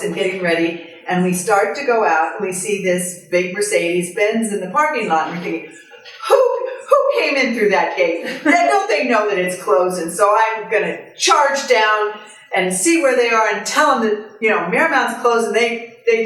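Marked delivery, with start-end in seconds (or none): 6.3-10.0 mock-indignant, raised-pitch demand. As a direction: challenge the trespassers, half in fun. Acting out indignant reaction to trespassers.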